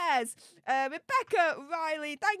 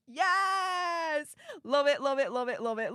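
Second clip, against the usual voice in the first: excited yes. Real, not acted. Reacting to a donor's message.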